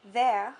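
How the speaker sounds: "vers" with the vowel of "père"; stressed open E in "vers", rhyming with "père". Shown as a demonstration. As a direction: say "vers" with a stressed short E, as in "get". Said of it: "to become more like père".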